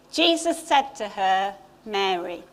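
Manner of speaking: Jesus tenderly calling Mary by name; tender reading. Shown as a demonstration. Favourite verse read tenderly.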